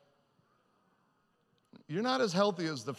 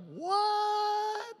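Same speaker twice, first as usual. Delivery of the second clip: high startled squeak of disbelief; a shocked, rising what; incredulous yelp at the news; stunned what. Retold or imitated. Stunned reaction to coincidence.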